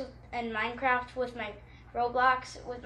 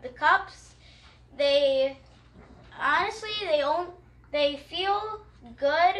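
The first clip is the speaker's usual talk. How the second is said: louder kid playing a big guy; 3 semitones higher, 5 dB louder, slower than usual. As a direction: puff up into a big tough guy. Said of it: "big guy voice".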